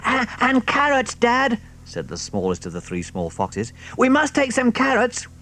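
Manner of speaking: high, eager little fox; small fox. Acted. The smallest fox to his father, high little voice. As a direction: pipe up keenly.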